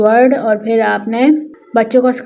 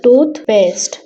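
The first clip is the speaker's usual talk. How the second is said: "toothpaste" said as two separated beats; split into syllables. Shown as a demonstration. Teacher confirming the two syllables for pupils, split into syllables. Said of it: "this word has two syllable".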